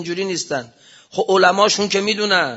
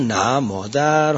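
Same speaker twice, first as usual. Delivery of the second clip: soothing; 4 semitones lower, much slower than usual. Retold or imitated. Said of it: "گفتم".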